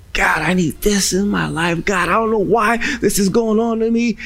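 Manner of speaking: a hint of a pleading believer; lightly voiced plea for help; crying out to God. Believer cries to God about trouble, mild plea. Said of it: "we're crying out to God".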